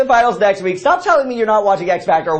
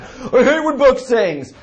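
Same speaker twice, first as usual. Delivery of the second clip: mock whiny voice; 5 semitones higher, slower than usual. Mock voice of a friend.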